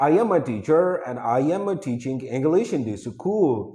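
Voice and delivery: demonstrated learner's local accent in English; wrong English accent. Shown as a demonstration. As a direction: say English with a faulty, non-native accent. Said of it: "wrong हो गया ना?".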